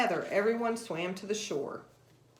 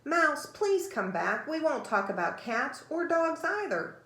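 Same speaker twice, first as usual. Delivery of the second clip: higher, slow calling-out plea; calling after him; 6 semitones higher than usual. Acted. Alice calling after the swimming mouse, higher pleading. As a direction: call him back, high and drawn out. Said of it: "She called after him".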